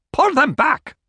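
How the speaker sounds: high, shrill exclamation; shrill cry. A narrator's reading. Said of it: "shrilled Grant".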